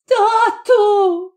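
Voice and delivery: high, sharp call in alarm; mother finding her child cold, crying out; frightened cry. A narrator's reading. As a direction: cry out for her father in terror. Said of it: "крикнула".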